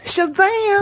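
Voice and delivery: very high, sung out; called out name. Pretend. Speaker shouting the hero's magic word, very high.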